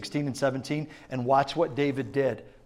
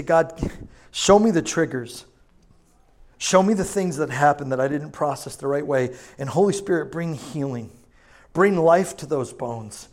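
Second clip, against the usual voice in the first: slow, deliberate praying; earnest prayer; 3 dB louder than usual. Acted. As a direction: pray it out slowly over them. Prayer over congregation.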